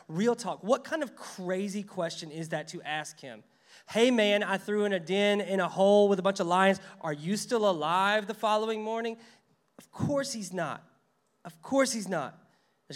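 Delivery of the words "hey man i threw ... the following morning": mock casual. Mock casual king asking.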